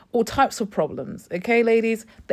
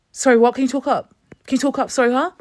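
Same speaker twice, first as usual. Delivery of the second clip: mock rude demand; 4 semitones higher, faster than usual. Mocking rude receptionist.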